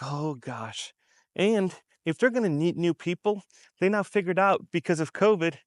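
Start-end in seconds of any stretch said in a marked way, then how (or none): 0.0-0.9 dismayed sigh. Retold or imitated. Worker realizing they're the last one left, soft dismay. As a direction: drop it low and soft, a quiet dismayed oh gosh. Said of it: "And now you're like".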